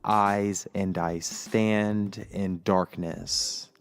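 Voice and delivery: slow, dreamy reading of his notes; poetic reading. Acted. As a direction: read it like a spoken-word poem. Reads his poetic notes aloud.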